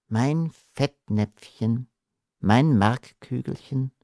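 slow weary sigh; slow, tired sigh. Acted. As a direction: sigh the pet names. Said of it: "seufzte Unschida".

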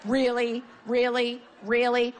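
the same incredulous question drilled repeatedly; relentless needling. Retold or imitated. Comic retelling her badgering of an unlaughing man, relentless. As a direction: keep needling with identical, evenly spaced jabs. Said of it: "like a dog with a bone".

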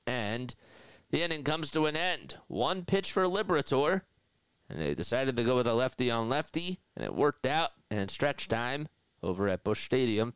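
lilting baseball announcer delivery; play-by-play call. Acted. Host calls Schwarber's at-bat for listeners, play-by-play voice. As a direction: call the inning like a radio broadcaster.

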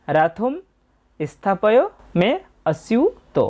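"রথম স্থাপয় মে অস্যুত" word by word with pauses; model quarter-verse pronunciation. Shown as a demonstration. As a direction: hold the "স্যু" in "অস্যুত" as a long rising syu. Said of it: "পরের চরণে উচ্চারণটাও পেয়ে গেলাম".

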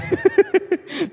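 high-pitched burst of laughter; high giggle. Real, not acted. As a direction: giggle helplessly at your own slip. Laughs at his accidental rhyme. (tiếng cười khúc khích cao giọng)

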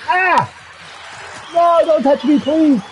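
half-playful squeal of don't touch me; mock panic. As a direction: beg like you're being grabbed. Panicked plea to game enemy.

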